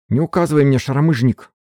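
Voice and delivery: high, loud furious yell; yelling back. A narrator's reading. Katerina yells back at Valet, high angry shout. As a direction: shout him down. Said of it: "заорала в ответ Катерина".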